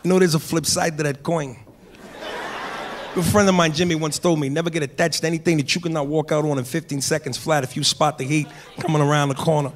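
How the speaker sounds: the thief's cool reply in Heat; De Niro impression. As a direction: answer the cop calmly, De Niro style. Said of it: "De Niro comes back".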